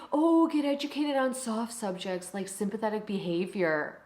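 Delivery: sing-song mock of the critics, starting high and falling; mocking quote. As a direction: parrot their advice with disdain.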